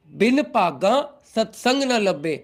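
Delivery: "भागा" in Punjabi accent, opening like "paga". Shown as a demonstration. Teacher dictating the shabad line to devotees, in Punjabi accent. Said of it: "I can use Punjabi accent also".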